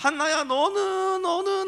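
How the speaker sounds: teasing, high, slow sing-song taunt, drawn out.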